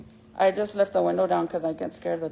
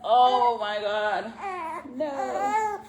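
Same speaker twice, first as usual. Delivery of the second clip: mock distress; 3 semitones higher, much slower than usual. Mom retelling watching baby's shots, mock anguish. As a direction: act out a mom's helpless anguish. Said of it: "you're like".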